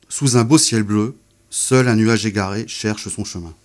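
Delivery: unhurried poetry reading with pauses; poem reading. Shown as a demonstration. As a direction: read each line as a small image. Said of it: "je vais vous en lire quelques-uns".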